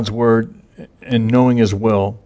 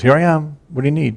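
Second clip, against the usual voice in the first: put-on eager boy; 5 semitones higher, faster than usual. Boy Samuel answering Eli.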